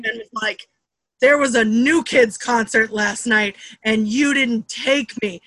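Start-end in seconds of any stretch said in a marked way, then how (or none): 1.2-5.4 put-on accusing kid confronting mom, slightly louder; re-enacted childhood grievance; retold confrontation. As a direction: lay out the accusation slowly and firmly. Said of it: "confronted my mother".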